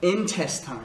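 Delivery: "intestines" said in-TES-tines; stress on second syllable. Shown as a demonstration. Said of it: "c'est la deuxième syllabe qui est accentuée". (« intestines » accentué sur la deuxième syllabe)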